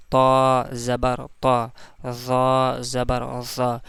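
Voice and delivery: slow, drawn-out recitation of each letter. Shown as a demonstration. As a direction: spell out each letter slowly for pupils. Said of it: "जैसे".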